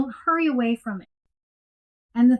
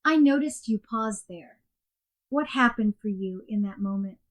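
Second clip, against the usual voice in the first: softer, curious coach question; gentle inviting coach; 3 dB quieter than usual. Shown as a demonstration. Coach gently inviting the client to explore, softly. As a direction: open the door gently for the client. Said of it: "Complete practice sounds like this".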